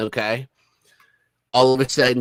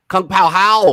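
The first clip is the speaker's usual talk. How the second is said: mock proud attempt; 8 semitones higher, 8 dB louder, slower than usual. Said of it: "I say".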